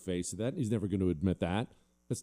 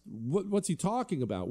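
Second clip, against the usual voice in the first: puzzled listener; 8 semitones higher than usual. Retold or imitated. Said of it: "Now, you could ask".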